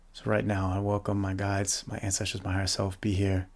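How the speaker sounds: calm, quiet prayer to guides and ancestors; meditative invocation. Real, not acted. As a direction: softly invite help, as in a meditation.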